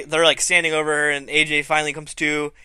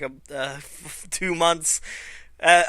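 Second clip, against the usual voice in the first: ordinary talk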